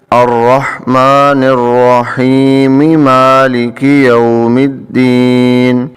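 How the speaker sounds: slow chant, الرحیم linked with mim into مالک; Quranic recitation. Shown as a demonstration. Teacher shows the correct joined reading, chanting. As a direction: recite in one breath, slow. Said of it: "ایک ہی سانس میں پڑھیں تو یہ پڑھیں گے".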